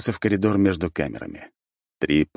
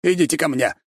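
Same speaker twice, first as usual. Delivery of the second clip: higher, pleading call; 10 semitones higher than usual. A narrator's reading. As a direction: beg the Archmage over. Prisoner calling for help.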